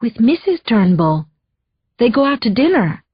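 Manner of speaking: put-on a light Spanish accent, answering the phone; lightly accented hello, picking up; Maria's accent. The housekeeper picks up, in a light Spanish accent. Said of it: "her accent".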